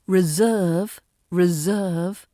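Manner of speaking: "reserve" with the s buzzed as a long z. Shown as a demonstration. Teacher modelling a word, S voiced as Z. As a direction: draw out "reserve" as re-ZERVE. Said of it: "That S sounds like a Z".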